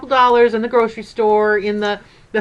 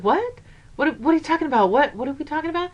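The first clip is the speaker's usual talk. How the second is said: puzzled surprise; 5 semitones higher, 3 dB quieter, faster than usual. Retold or imitated. Grandma puzzled by grandson's remark.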